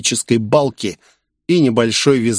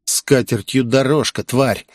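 ordinary delivery

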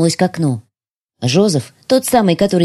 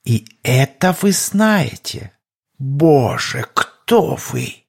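frightened spy; 2 semitones lower than usual. Acted. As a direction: plead with a killer. Шпион Янис, низкий чужой голос. (испуганный шпион)

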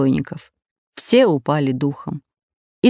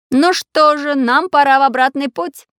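cheerful; 8 semitones higher than usual. A narrator's reading. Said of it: "весело сказал Самоделкин".

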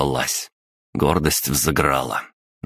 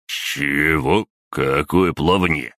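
taken aback; slower than usual. Acted. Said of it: "опешил собеседник".

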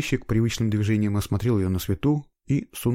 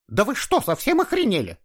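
erupting in a row; 14 semitones higher than usual. A narrator's reading. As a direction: blow up at the officers. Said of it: "разразилась скандалом женщина". (женщина закатывает скандал, высоко и громко)

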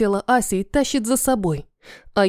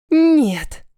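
higher, louder growl; growled refusal; 6 semitones higher, 4 dB louder than usual. Acted. Fox girl refuses the serum, loud high growl. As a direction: bark the refusal straight at him. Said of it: "рычит лисичка".

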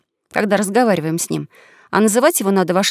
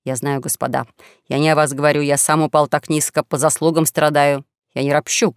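understated martyr's lament, lower than the narration; self-pitying young swindler; 5 semitones lower than usual. Acted. Young swindler playing the martyr before his companions, understated self-pitying lament. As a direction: lament with measured, resigned pauses.

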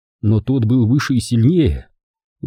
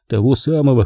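plain reading voice

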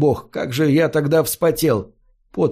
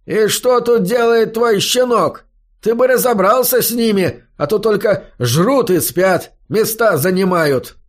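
angry complaint; 7 semitones higher than usual. A narrator's reading. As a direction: spit out the complaint, offended. Bouncer complaining angrily.

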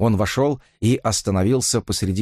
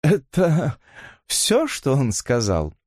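sarcastic; 4 semitones higher, slower than usual. A narrator's reading. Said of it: "язвительно поинтересовалась".

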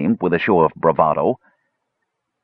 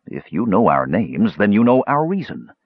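bold reply; 2 semitones higher than usual. Acted. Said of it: "surprising himself with his own boldness".

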